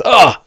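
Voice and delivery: mock pained groan; acted grunt. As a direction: grunt as a healing wound sizzles. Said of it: "and he goes".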